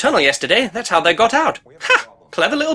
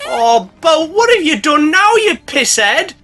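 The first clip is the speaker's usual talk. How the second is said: scolding owner; 10 semitones higher, 4 dB louder, slower than usual. Acted. Dick scolding drunk boat.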